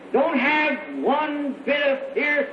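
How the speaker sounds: slow, emphatic preacher's shout; preaching shout. Real, not acted. Preacher urges the congregation to drop all fear, slow rousing shout. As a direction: drive each word home to the crowd.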